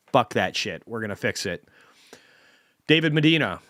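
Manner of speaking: ordinary talk, nothing marked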